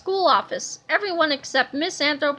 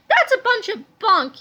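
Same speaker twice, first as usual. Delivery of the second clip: slow, louder scoffing yell; 6 semitones higher, 5 dB louder than usual. A narrator's reading. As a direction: scoff loudly. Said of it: "yelled Melvin".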